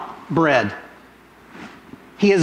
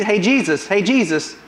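poking taunt; 2 semitones higher than usual. Retold or imitated. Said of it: "kinda poking at Je".

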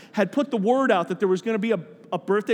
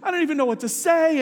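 higher-pitched, mildly choked-up retelling; overcome, tearful; 5 semitones higher than usual. Retold or imitated. Agnes overwhelmed by her surprise party, mildly tearful. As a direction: lightly imitate someone moved beyond words. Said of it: "and she wept".

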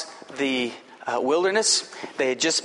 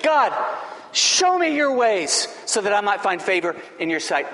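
earnest pleading, a touch raised; Moses praying; 4 semitones higher than usual. Acted. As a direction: ask God humbly as Moses. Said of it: "He prayed".

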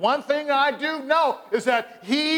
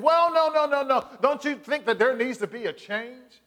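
dodging visitor; 3 semitones higher than usual. Retold or imitated.

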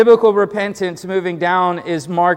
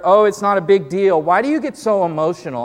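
defensive irritation; 3 semitones higher, 4 dB louder, faster than usual. Retold or imitated. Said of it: "defensiveness and anger".

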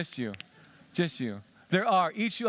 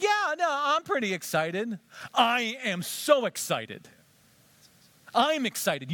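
high, bright and eager, stretched on so; gushing with excitement; a believer bursting with Christmas joy; excited; 6 semitones higher than usual. Pretend. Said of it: "Are you excited?".

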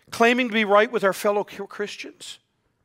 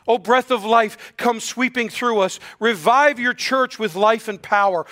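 raised, urgent invocation; fervent prayer; 3 semitones higher than usual. Acted. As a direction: call on God to revive the church. Closes with a prayer.

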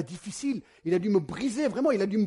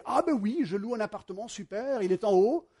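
higher baker, pleased to rent; a lightly voiced eager shopkeeper; 3 semitones higher than usual. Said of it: "Il a dit".

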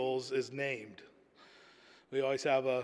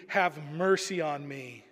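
pleading; slower than usual. Retold or imitated.

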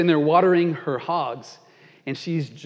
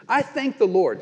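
smug pious woman; 6 semitones higher, 4 dB louder than usual. Acted. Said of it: "she just says this".

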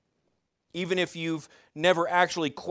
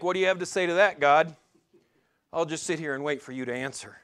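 lightly voiced cheeky kid scolding his parents; a hint of a pouting child daring a reply; faster than usual. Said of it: "like a kid scolding his parents".

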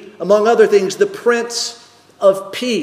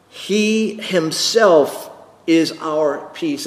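slow, weighty stress on each word; emphatic; slower than usual. Shown as a demonstration. Preacher stressing that He himself is our peace. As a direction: lean hard on He himself. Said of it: "it's emphatic".

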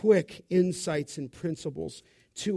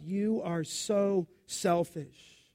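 mock scolding mother; slower than usual. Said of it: "for a mother to tell a child".

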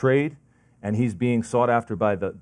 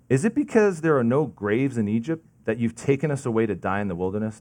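heavy sarcasm. Retold or imitated. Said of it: "This is, like, heavy sarcasm".

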